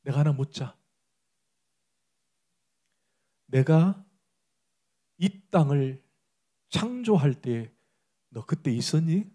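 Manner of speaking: God speaking. Retold or imitated. God questioning suffering Job, soft and slow. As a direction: ask him tenderly, slowly, with long pauses. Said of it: "이렇게 얘기해요".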